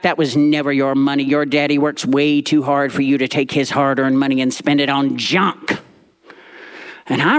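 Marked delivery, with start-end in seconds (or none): 0.0-5.8 snapping. Retold or imitated. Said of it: "Granny snapped back".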